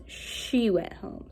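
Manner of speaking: slow reading aloud. Shown as a demonstration. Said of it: "Next, I'm gonna use".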